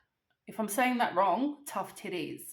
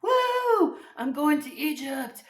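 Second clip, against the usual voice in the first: high squealing woo, much higher and louder; giddy excitement; 7 semitones higher, 8 dB louder, slower than usual. Retold or imitated. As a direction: celebrate like you just booked the trip. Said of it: "one minute I was like".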